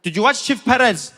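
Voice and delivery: lightly voiced customs officer, slow and drawn out; a hint of a suspicious official ticking boxes; South African official. Customs officer grilling the comedian, slow and deliberate. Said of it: "He's like".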